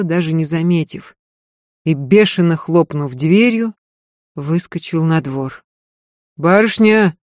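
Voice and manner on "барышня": громко зовёт, выше; кличет барышню из другой комнаты. A narrator's reading. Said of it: "звал голос Марфы". (Марфа зовёт Софью на помощь)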